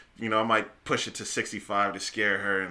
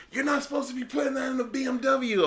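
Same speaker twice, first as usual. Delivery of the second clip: put-on young clerk voice. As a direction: mimic the pushy parts clerk. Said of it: "some young guy was like".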